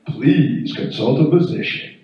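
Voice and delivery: slow, flat robotic meter readout; a ding, then slow clinical robot announcement; clinical machine voice. Pretend. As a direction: read it out like a cold medical device. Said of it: "I hear".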